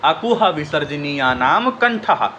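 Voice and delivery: slow, measured chant of the formula; slow sutra revision. Shown as a demonstration. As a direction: recite it for revision. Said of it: "फिर से एक बार revision कर लीजिए". (धीमे से सूत्र दोहराना)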